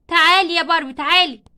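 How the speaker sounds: loud firm call. Acted. Teacher calls crying Barbie over to her, loud and firm. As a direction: summon her across the room.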